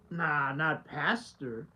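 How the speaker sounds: low and slow, deadpan denial; wife's flat answer. Retold or imitated. Wife asked how he really is at home, answers low and slow. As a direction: drop way down and drag it out, unimpressed. Children's answer voiced in retelling.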